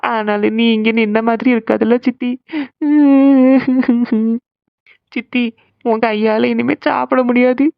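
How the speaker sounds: tearful pleading broken by put-on sobs; crying. Niece begging her aunt not to leave, crying. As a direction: beg and sob between phrases. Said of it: "அதுக்கு தான் இப்படி அழுதுட்டு இருக்கா".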